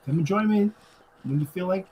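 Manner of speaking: tossing off the invite, quick and high; upbeat quick David. Retold or imitated. Recapping David breezily inviting Luke in, quick and high.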